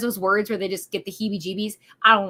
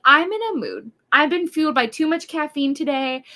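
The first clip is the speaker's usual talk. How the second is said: higher, louder hyped-up retort; mock dramatic announcement; 5 semitones higher, 4 dB louder than usual. Streamer retells warning her husband she's in a mood, mock dramatic. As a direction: declare an overcaffeinated mood for comic effect.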